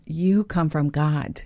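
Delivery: ordinary delivery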